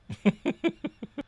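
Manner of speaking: soft, high-pitched chuckle. Real, not acted. Chuckling at own launch joke, amused laugh.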